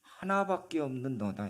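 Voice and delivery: 하나밖에 stressed against the idea of one in billions; preacher stresses 하나밖에 to his listener; stress on only one. Shown as a demonstration. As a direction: land on 하나밖에 firmly. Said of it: "수십억 분의 하나가 아니라".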